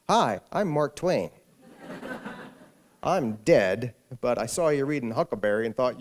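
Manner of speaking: a hint of a ghostly old Twain, amused; Mark Twain. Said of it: "walking around going".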